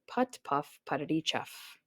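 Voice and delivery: soft chugging engine noises; tractor putter. A narrator's reading. Narrator voicing the tractor's soft chugging. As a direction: puff it out like a little tractor.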